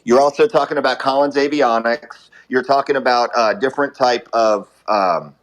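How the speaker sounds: talking while brushing teeth; words around a buzzing toothbrush; brushing with electric toothbrush. Real, not acted. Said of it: "sorry, I'm brushing my teeth".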